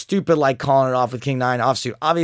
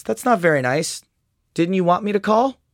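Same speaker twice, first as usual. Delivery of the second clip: mock polite; 6 semitones higher than usual. Reading his own polite chat reply.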